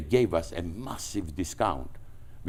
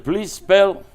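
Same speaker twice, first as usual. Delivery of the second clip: baffled plea; 13 semitones higher, 9 dB louder than usual. Retold or imitated. Confused caller asking to spell.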